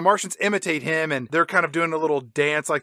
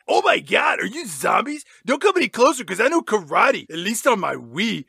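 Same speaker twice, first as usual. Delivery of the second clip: higher-pitched mock alarm; Milo; 4 semitones higher than usual. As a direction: warn them off like a bluffing kid. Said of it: "Milo says".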